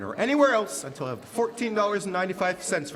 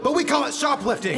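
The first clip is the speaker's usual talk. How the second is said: loud, high accusation; accusing shout; 9 semitones higher, 5 dB louder than usual. Acted. Floorwalker accusing Mr. Andrews of theft, loud and high. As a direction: nail him with the word shoplifting.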